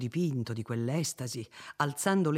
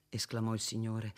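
plain reading voice

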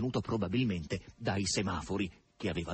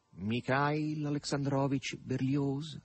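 slow, lightly nasal stranger; nasal male voice; 3 semitones higher, much slower than usual. Acted. Stranger on the bench answering Margherita, lightly nasal. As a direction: drawl the name a little through the nose. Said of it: "una voce maschile un po' nasale".

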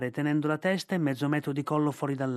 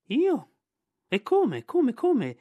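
high, louder, offended protest; indignant python Ka; 6 semitones higher, 5 dB louder than usual. Acted. Ka protests to Bagheera that he hunts no monkeys, indignant. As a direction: bristle at the very idea.

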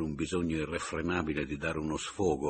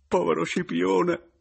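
higher, louder, voice cracking into weeping; bursting into tears; 12 semitones higher, 7 dB louder than usual. A narrator's reading. Papiano lamenting his brother, bursting into tears. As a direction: let the sob break out. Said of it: "scoppiò in dirotto pianto".

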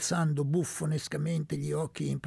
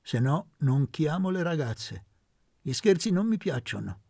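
mock-cross, a touch louder; hammed-up irritation; 5 dB louder than usual. Aunt demanding money from Elpidio, mock-annoyed. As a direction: play at being annoyed. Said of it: "con quella stizza caricata".

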